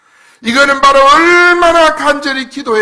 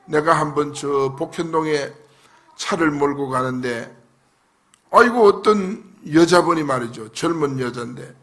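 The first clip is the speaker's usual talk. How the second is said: ordinary talk, nothing marked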